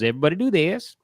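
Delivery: rising mock stage commands, last one slow; hammed-up magician instructing the audience. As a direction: lead the crowd in ever harder tricks. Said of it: "he goes".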